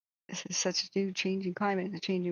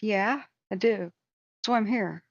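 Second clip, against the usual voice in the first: louder, emphatic answer; retold firm reply; 2 semitones higher, 5 dB louder, slower than usual. Answering the documentary crew, loud and emphatic. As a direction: lean in and insist.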